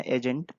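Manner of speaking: "एजेंट" cut short without a final a; exact pronunciation. Shown as a demonstration. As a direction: end "एजेंट" on the consonant, no vowel after it. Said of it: "जो exact pronunciation वो आपके सामने है". ("एजेंट" के अंत में आ की ध्वनि नहीं)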